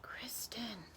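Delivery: soft breathy whisper of a name; the breeze whispering a girl's name. A narrator's reading. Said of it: "the breeze seemed to whisper in my ear".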